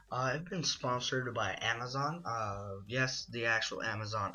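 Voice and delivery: sponsor announcement. Acted. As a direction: pitch the sponsor like a promo.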